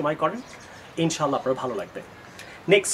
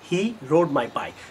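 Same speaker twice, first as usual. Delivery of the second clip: slow model sentence; much slower than usual. Shown as a demonstration. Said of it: "Don't say he drove my bike".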